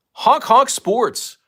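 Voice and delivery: slow, high honking clown voice; silly clown. Pretend. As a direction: honk the name out like a horn. Reads viewer name like horn.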